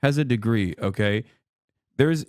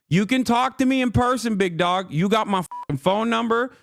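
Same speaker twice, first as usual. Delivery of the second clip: raised-pitch, indignant rant; heated challenge; 4 semitones higher than usual. Real, not acted. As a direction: call out a rival, emphatic and heated. Heated rant at absent rival.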